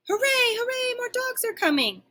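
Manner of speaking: very high, excited squeal; dog cheering for new friends; overjoyed cheer. A narrator's reading. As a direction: cheer like a delighted puppy.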